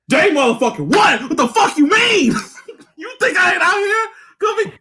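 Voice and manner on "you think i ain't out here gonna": shouts it while cracking up; laughing shout. Real, not acted. Teasing his friend about buying the game, laughing shout. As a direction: laugh through the words, full volume.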